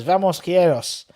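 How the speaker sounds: rally them slowly in put-on Spanish; practising Spanish. Shown as a demonstration. Fan turning the club's cry into Spanish, put-on Spanish accent. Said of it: "we can all practice our Spanish".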